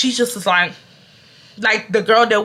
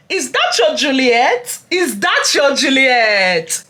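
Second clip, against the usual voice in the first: slow mocking taunt; 4 semitones higher, slower than usual. Mocking taunt about Romeo.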